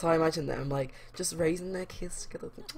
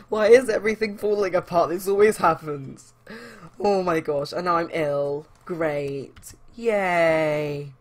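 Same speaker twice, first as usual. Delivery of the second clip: loud despairing wail; 3 semitones higher, 11 dB louder, slower than usual. Acted. Francesca despairs loudly as the party falls apart. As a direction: wail that everything is falling apart.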